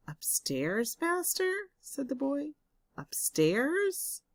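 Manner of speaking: high, rising astonished question; can't believe the order; boy questioning his master in disbelief; baffled question. Acted.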